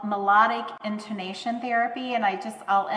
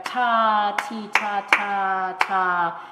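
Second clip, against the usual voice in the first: ta ti ta ta ta tapped out, slow, each syllable punched; rhythmic syllables; 4 dB louder, much slower than usual. Shown as a demonstration. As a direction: beat out ta ti ta ta ta. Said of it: "those rhythmic components".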